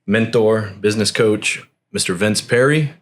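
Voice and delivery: measured, announcer-like podcast intro; put-on podcast host voice. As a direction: introduce the guest like a show host, deliberately paced. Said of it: "did you just change your voice".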